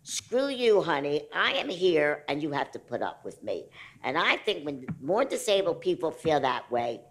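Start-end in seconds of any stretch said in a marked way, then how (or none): 0.0-3.7 defiant outburst. Retold or imitated. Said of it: "when I said to myself".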